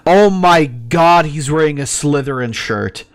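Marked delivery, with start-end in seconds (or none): 0.0-1.3 drawn out and louder, stunned; slow stunned oh my god. Real, not acted. Streamer spotting a Slytherin shirt, stunned and drawn out. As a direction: gasp it out slowly in disbelief.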